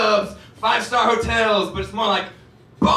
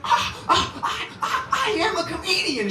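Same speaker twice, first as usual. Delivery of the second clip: stammering; 11 semitones higher than usual. Retold or imitated. Stunned reply to the kid.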